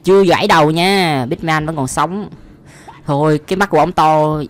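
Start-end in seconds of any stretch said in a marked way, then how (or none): none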